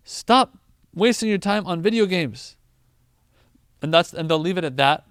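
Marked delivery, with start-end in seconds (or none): 0.1-2.6 loud, firm telling-off; parent scolding. Retold or imitated. A parent telling a gaming kid off once, firm and loud. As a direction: scold the gamer once and leave it. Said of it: "They'll say".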